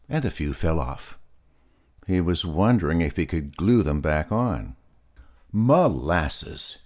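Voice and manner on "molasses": yell. Acted. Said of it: "yelled Peter".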